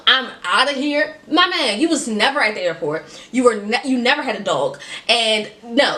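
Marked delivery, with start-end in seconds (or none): 0.1-3.0 mocking quote. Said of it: "he's playing with me".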